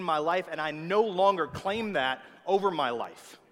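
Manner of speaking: emphatic prayer building in force; declarative prayer. Shown as a demonstration. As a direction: declare it to God with growing conviction. Models a bold prayer of declaration.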